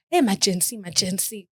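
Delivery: "majensi" said with a soft s in place of z; imitated local "majensi", with an s sound; popular Kenyan pronunciation. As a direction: say "majensi" ending in -nsi, as Kenyans say it. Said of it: "'cause that's how they say it".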